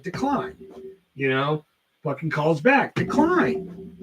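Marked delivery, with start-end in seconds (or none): 0.0-0.6 high, rising mock-exasperated rejection; retold exasperation. Retold repeated rejection of calls. 2.9-3.9 very high, rising mock-exasperated rejection; retold exasperation. Rejects another call, growing fed up.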